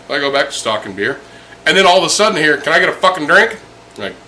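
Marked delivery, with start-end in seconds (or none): 2.6-3.6 shouted demand. Retold or imitated. Grumpy old customer shouting.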